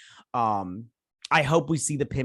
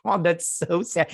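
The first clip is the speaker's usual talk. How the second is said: higher, drawn-out mock lament; a slow pitched-up aww of sympathy; retold sad reaction; 5 semitones higher than usual. Watching a boy miss his dad, retold sad reaction. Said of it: "I was like".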